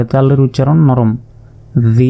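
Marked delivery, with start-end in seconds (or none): 1.9-2.1 জি with a soft, light z sound; soft Dhal. Shown as a demonstration. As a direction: say জি softly, tongue relaxed. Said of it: "নরম করে". (নরম করে জি উচ্চারণ)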